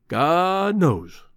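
sad. Acted. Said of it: "said Greenbrier sadly".

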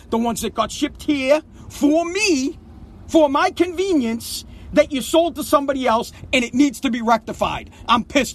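pissed off. Real, not acted. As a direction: press the grievance with real anger.

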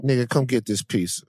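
lightly voiced old self, tempting; a hint of a coaxing tempter; Fat Van. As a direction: play your former self luring you to eat. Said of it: "That's how he sounds".

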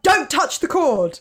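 high laughing mock warning; fussy grandmother warning, laughing; nan warning. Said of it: "would your Nan be like".

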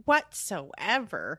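slow mock transatlantic drawl on one word; transatlantic accent. Co-host savouring the snub's last word, transatlantic accent. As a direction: stretch it out in transatlantic style. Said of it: "like, a transatlantic accent".

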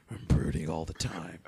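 low, brooding Batman parody; growling Batman. Retold or imitated. Host parodying every animated Batman, brooding growl. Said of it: "sound like a growling motherfucker".

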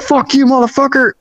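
mock angry retort. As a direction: act out the dude cursing back. Retold bathroom confrontation, man cursing back.

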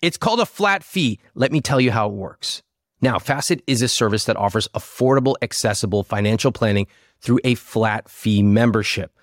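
lively sponsor pitch; ad read. Acted. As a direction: sell it like a podcast ad.

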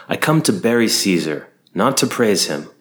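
measured, formal stage reading of the line; Shakespearean oration. Shown as a demonstration. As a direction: weigh each word like a stage actor. Recited line, then paraphrased later.

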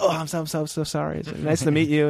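lightly voiced flustered apology; apologetic gushing. Grip apologizing to his parents for the actor. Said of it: "I was like".

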